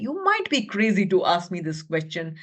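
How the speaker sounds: tiger voice. Acted. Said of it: "tiger said".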